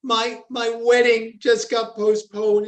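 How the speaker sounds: high, tearful plea, voice lifted; tearful girl. Retold or imitated. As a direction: imitate a young girl close to tears. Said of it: "in tears".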